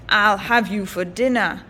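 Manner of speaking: a hint of a greedy ogre; ogre threat.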